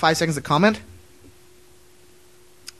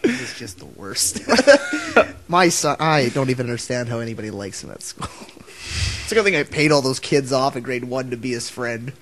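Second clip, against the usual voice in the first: lightly voiced weary mother, lower pitch; disappointed mom; 4 semitones lower than usual. Son imitates mom despairing over his podcast, lightly voiced weary disappointment. Voicing mom's disappointed thoughts.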